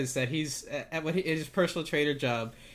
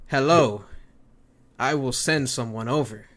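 Randy Orton; 2 semitones lower, 4 dB louder than usual. Pretend. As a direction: answer deliberately, in mock seriousness. Voicing Randy Orton answering calls.

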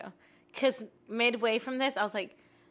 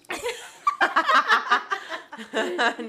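gurgling; 9 semitones higher, 6 dB louder than usual. Real, not acted. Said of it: "you could hear those gurgles".

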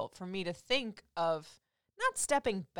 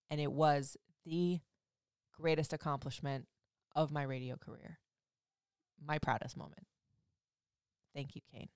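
getting emotional; 4 semitones lower, 7 dB quieter than usual. Real, not acted. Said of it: "I'm not gonna get emotional about that right now".

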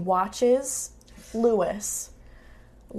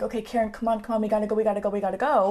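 urgent hurrying; much faster than usual. Retold or imitated. Marin hurrying injured Karen along.

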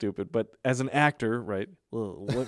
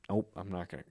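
holding back tears; 6 semitones lower, 7 dB quieter than usual. Shown as a demonstration. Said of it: "you have to try not to cry".

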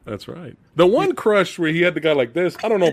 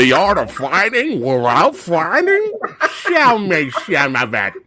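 mock challenge; 4 semitones higher, 4 dB louder, slower than usual. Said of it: "when the guy goes".

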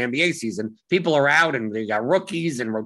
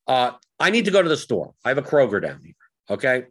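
patronizing. Real, not acted. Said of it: "I sound so patronizing".

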